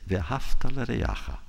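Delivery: slow, careful Hebrew recitation; quoting scripture in Hebrew; Hebrew quote. Shown as a demonstration. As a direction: recite the verse in Hebrew, slowly. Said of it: "and I would say".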